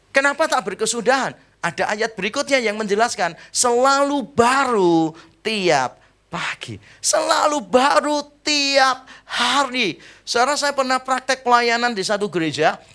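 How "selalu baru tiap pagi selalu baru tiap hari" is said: solemn scripture reading. Acted. Quoting scripture verse.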